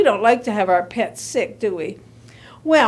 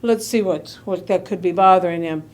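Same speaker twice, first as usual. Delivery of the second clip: concerned vet; 6 semitones lower than usual. Acted. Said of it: "the doctor said".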